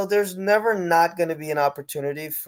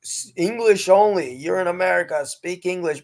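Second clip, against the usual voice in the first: mock American; 4 semitones higher than usual. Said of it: "Americans love to say".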